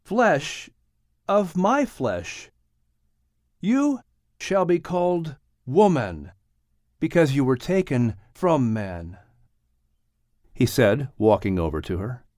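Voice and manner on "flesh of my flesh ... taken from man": solemn man's voice, higher, slow; Adam's voice. A narrator's reading. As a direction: speak like a man naming his bride. Adam speaks to his new wife.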